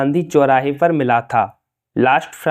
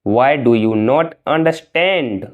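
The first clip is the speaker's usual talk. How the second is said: slow, careful model sentence; slow and clear. Shown as a demonstration. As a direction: lay out each word for learners. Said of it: "तुम समझते क्यों नहीं हो?". (धीरे और साफ़)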